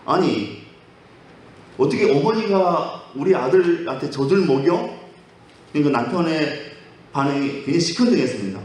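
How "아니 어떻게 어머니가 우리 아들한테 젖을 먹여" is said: mildly acted indignant challenge; indignant questioning. Daughter-in-law confronting her husband, indignant questioning. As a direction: question it in mock disbelief, drawing it out slowly. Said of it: "너무 이상해서 남편한테 따졌습니다".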